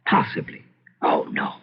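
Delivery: hushed, half-voiced worry; whispered to himself. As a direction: breathe the doubt out almost silently. Master muses fearfully to himself.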